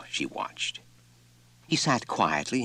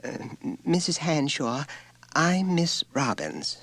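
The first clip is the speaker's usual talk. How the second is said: diffident; 10 semitones higher than usual. A narrator's reading.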